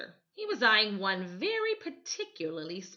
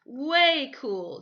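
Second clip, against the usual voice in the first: higher, louder eager agreement; eager echo; 7 semitones higher, 7 dB louder than usual. Acted. Derek echoing Michael, eagerly agreeing. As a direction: echo his brother with relish. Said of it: "Derek echoed".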